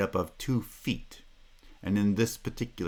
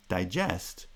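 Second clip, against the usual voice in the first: digest as di-GEST; stress on second syllable. Shown as a demonstration. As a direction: verb digest, second syllable stronger than the first. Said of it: "we have the opposite".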